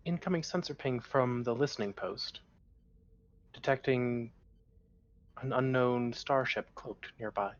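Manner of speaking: ship computer reporting, even tone; lightly voiced computer readout; robot voice. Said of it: "nothing but robot voices".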